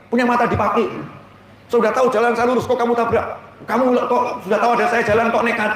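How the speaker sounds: mock angry driver. Preacher imitating two drivers quarrelling after a collision, mock angry. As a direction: play-act an indignant road quarrel. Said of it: "saling marah gitu".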